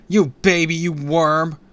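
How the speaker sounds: high loud yells; screamed insults. A narrator's reading. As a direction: scream the taunts at him. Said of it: "I screamed".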